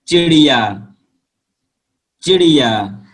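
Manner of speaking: चिड़िया with a quick short i; short i vowel. Shown as a demonstration. Teacher models short i words for pupils, said clearly. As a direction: clip the i in चिड़िया. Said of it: "जल्दी से बोलने का प्रयास".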